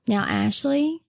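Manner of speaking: gently voiced old great grandma. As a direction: coax like a ninety-year-old grandma. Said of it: "Not a bad great grandma voice".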